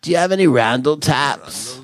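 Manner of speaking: casual dude asking for taps; gym bro. Shown as a demonstration. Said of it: "the bro guy's a little deeper".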